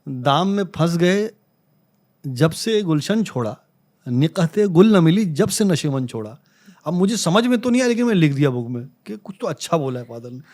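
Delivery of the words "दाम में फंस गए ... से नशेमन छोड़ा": slow, measured recital of an Urdu couplet; reciting his father's couplet slowly; slow shayari recitation. Retold or imitated. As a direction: savour each word like reciting a sher.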